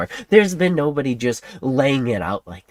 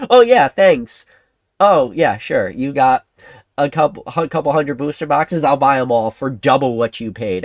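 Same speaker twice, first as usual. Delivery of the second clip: bright, loud, overeager yes-man voice; eager mock kids; 4 dB louder than usual. Imagined kids answer the seller, mock eager. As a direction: gush like a kid who'll buy everything.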